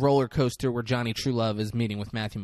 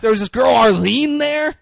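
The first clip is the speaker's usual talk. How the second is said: much higher, louder, giddy party rambling; rambling Johnny Trullo; 10 semitones higher, 9 dB louder than usual. Retold or imitated. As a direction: gush about the party like a starstruck fool. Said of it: "I wish you would have been like".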